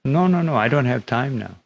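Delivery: acted-out busy man refusing; dismissive refusal. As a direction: wave off an unwanted caller. Busy washerman brushing off a sannyasi.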